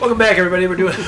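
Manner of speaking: talking through a mouthful of chips; words round crunchy chips, mouth full. Real, not acted. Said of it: "still got chips in my mouth".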